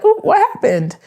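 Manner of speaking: high, concerned "Oh, what happened?"; lightly acted worry; mock worried question. Acted quotes of worried partner.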